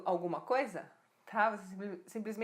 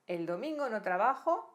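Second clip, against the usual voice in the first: "el domingo no trabajo" mais forte, subindo no fim; ênfase na construção; 5 dB louder than usual. Shown as a demonstration. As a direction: destaca a ordem das palavras. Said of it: "isso é uma construção espanhola". (realce em "el domingo no trabajo", mais alto)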